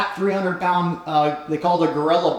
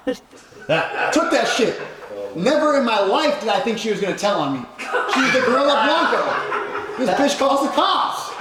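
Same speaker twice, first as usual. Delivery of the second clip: high, laughing disbelief; 8 semitones higher than usual. Real, not acted. Telling the host how she called the cops, laughing. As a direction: laugh through the punchline.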